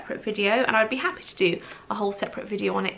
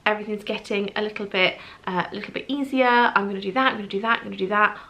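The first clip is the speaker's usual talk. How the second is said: eager inner voice; faster than usual. Retold or imitated.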